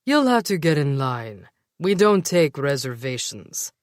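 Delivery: haughty elf with a lisp; a lisping, snooty bouncer; sophisticated lisp. Acted. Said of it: "in a sophisticated lisp".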